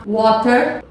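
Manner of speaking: WATER with a crisp T in the middle; British pronunciation. Shown as a demonstration. Teacher names the drink, British WATER with clear T. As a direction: sound the T in "Water", British style. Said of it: "é a pronúncia britânica".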